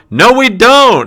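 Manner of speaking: very high, loud shout. Walking out the door, answering the question: yelling out the door. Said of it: "I just yell".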